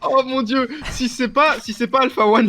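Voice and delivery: excited exclamation. Real, not acted. Mock outrage at accusation.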